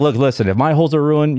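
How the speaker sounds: normal talking voice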